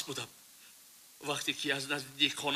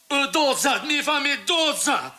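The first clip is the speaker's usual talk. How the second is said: agitated; 9 semitones higher, 4 dB louder than usual. Acted. Confession reaches the killing.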